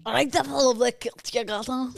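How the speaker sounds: high, eager Scottish mimicry; parroted Scottish accent. Co-host mimics host's line, Scottish accent. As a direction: copy the Scottish accent wholeheartedly. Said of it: "Full on mimic everything you do".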